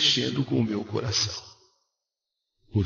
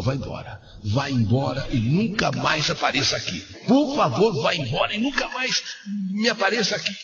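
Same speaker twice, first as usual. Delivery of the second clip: retold angry warning; 2 semitones higher than usual. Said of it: "eu falei pra ela".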